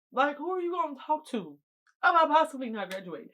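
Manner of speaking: rising desperate complaint; exasperated outburst. Real, not acted. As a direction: let the frustration burst out. Exasperated rhetorical question.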